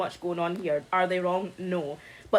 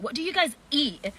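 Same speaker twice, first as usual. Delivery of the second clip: incredulous commenter; 3 semitones higher than usual. Retold or imitated. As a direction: imitate a baffled online commenter. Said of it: "I seen a comment that was like".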